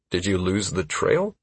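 hesitant. Acted. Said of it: "I asked hesitantly".

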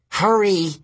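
high, pressing urgency; urgent. Acted. Grover urging Tyson at the boulder, high and urgent. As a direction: urge him on, pitched well up.

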